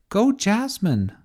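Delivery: high, slow storybook cheer; root for your champion; cheering cry. A narrator's reading. Tessa cheering Jasmine into the fight, cheering cry. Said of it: "cried Tessa".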